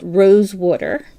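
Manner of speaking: South Jersey pronunciation of "Rose Water"; Jersey accent. Real, not acted. Crafter naming her yarn shade live, Jersey accent slipping out. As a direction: say "Water" as "wooder", Jersey style. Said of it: "that's my Jersey accent coming out".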